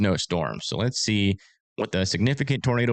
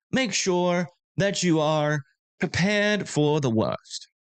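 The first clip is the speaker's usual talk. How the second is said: a hint of a posh British news anchor; mock British newsreader; 5 semitones higher than usual. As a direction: play a stiff British weather presenter. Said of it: "I put a British accent in there".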